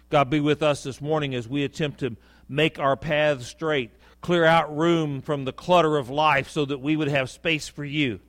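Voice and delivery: earnest pulpit prayer, building in pitch; spoken prayer to God, swelling as it goes; public prayer. Real, not acted. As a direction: lead the congregation in prayer, measured and rising. Leads the congregation in prayer.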